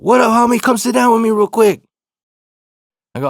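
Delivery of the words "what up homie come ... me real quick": big hype homie greeting, higher and louder; a buddy's loud welcome across the restaurant. Retold or imitated. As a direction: call him over like an old friend. Remus calls him over.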